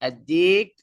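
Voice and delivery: "আদ-দিক" with doubled d, no l, rising at the end; teacher's model "আদ-দিক" without the l; silent lam. Shown as a demonstration. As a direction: say "আদ-দিক" straight into the d, lam unsounded. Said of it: "লামটা উচ্চারণ হবে না".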